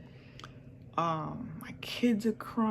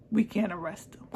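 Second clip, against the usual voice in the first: ordinary talk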